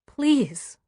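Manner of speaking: desperate begging please. A narrator's reading. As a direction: plead with all hope. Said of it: "desperate now".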